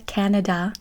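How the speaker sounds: Canada said the English way; English-accented "Canada"; English pronunciation. Shown as a demonstration. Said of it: "in English".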